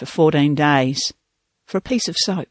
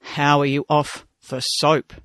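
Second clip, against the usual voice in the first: slow, hollow-voiced demand; lightly put-on hollow voice, drawn out; 3 semitones lower than usual. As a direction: ask it slowly in a hollow voice. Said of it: "in a hollow voice demanded".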